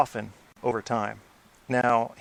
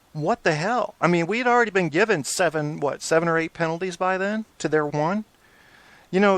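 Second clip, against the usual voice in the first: exasperated rant; 5 semitones higher than usual. Real, not acted. Ranting about officials.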